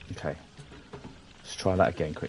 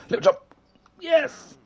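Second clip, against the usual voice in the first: much higher playful squeak; high squeaky voice. Shown as a demonstration.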